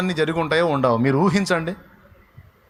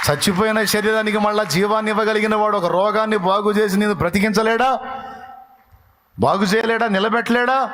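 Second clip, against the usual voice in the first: fiery preaching; 7 semitones higher than usual. Real, not acted. Preaching at full force.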